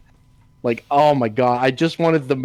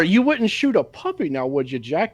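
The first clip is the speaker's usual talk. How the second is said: corrected line, higher coaxing voice; mock plea pitched up; quoting a movie character; 4 semitones higher than usual. Co-host correcting the quoted line, lightly higher.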